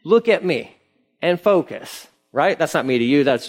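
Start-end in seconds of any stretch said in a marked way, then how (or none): 0.0-2.1 high, slowed, strained plea for attention; exasperated parent. Retold or imitated. Preacher voices Jesus as parent pulling car over, exasperated. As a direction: rein in unruly kids on a car ride. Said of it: "he's gotta pull the car over many times to say".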